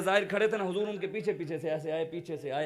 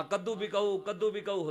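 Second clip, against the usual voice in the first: raised street cry; louder vendor call; 3 semitones higher than usual. Retold or imitated. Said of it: "آواز اور اونچی ہو گئی".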